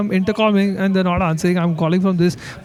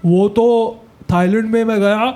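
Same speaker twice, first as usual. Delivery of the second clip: shameless uncle; much faster than usual. Retold or imitated. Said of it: "You know those shameless uncles all".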